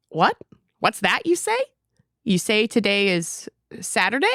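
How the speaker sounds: put-on sing-song children's poem reading; reading a poem aloud. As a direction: read it like a bouncy kids' rhyme. Reads a Shel Silverstein poem.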